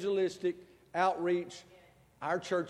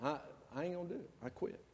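softer, fast sulky mumble; sulky quitting; 5 dB quieter, faster than usual. Retold or imitated. Pastor telling his wife he is quitting, sulking. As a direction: pout it out like a sulking kid. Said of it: "I said".

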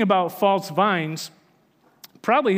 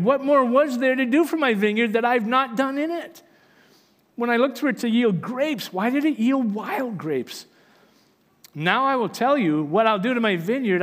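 preacher reading God's lament over the vineyard, building to fervor; preaching scripture; 3 semitones higher than usual. Acted. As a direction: proclaim it like the prophet pleading for his vineyard. Reads Isaiah 5 aloud.

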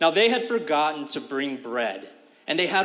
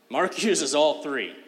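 a laugh breaking into the line; amused, chuckling through it; 5 dB louder, slower than usual. Real, not acted. Amused at Mark's triple leaving.

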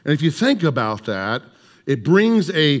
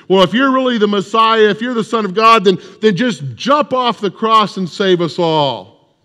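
higher, sneering mock taunt, slowing at the end; mocking thief; 5 semitones higher than usual. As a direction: jeer up at the cross. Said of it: "begins to mock and ridicule Jesus".

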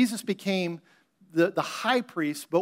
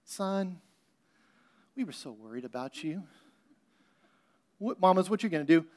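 softer, gentle mama scolding her son; a mother quietly telling her boy she was worried; hushed, composed motherly concern; calm mother; 4 dB quieter than usual. Retold or imitated. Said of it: "this wasn't Mary going".

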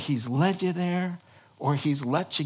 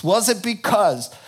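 complaining Israelites; 4 semitones higher, 5 dB louder than usual. Acted.

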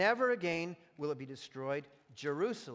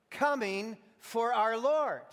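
town crier; 4 semitones higher, 5 dB louder, slower than usual. Acted. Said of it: "if I were a town crier".

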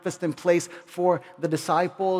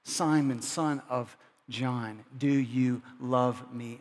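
tender question; 5 semitones lower, 4 dB quieter, slower than usual. Acted. Jesus asks gently a third time.

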